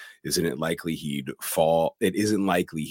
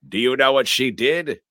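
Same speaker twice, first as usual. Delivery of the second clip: high, loud put-on character voice; Burke's voice; 7 semitones higher, 7 dB louder than usual. Possessed girl taunting Mother, imitated man's voice, high and loud. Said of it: "and in Burke's voice".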